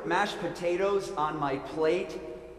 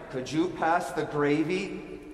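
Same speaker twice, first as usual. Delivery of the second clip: grudging please; much slower than usual. Retold or imitated. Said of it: "what word did I leave off? Please".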